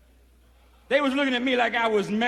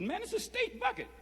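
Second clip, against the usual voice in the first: dismissive inmate; 13 semitones higher, 7 dB quieter than usual. Retold or imitated. Inmates quarrel over mop bucket.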